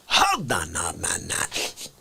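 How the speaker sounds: low, slow mock outrage; hammed-up indignant catchphrase; How Dare You guy. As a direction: drop way down and drag it out. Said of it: "How Dare You Drag Racer".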